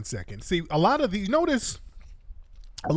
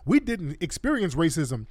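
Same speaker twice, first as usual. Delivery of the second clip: higher, swooping mimicking voice; mock her with exaggerated rises and falls; mocking imitation of debate opponent; 4 semitones higher than usual. Host mimicking woman from Guyana in debate, mocking high voice. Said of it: "she was talking about".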